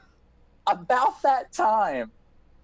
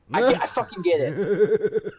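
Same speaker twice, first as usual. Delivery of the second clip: laughing irritation; slower than usual. Retold or imitated. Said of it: "I'm like".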